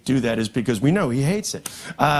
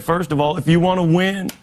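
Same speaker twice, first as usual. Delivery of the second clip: Bill Clinton impression; 3 dB louder, slower than usual. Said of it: "they sound so similar".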